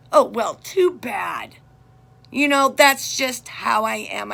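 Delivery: slow, loud shout of too bad; a mother shouting her defiance at her daughter; defiant shout. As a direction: throw the words back at her loudly. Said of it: "I said".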